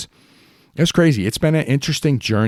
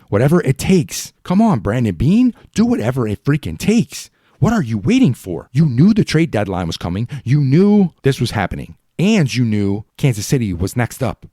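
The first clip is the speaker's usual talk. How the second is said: raised, exasperated call-out at the GM; frustrated fan yelling; 4 semitones higher than usual. Real, not acted. Fan ranting at the GM.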